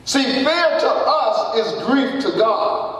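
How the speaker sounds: slow, driving emphatic cry; slow preaching shout. Real, not acted. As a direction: drive it home to the congregation.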